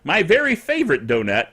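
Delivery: ordinary delivery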